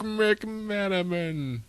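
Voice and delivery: slow, drawn-out announcer name. Acted. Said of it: "sounded like the S N L announcer guy".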